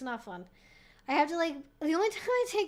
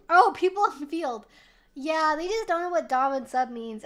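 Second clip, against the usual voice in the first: ordinary delivery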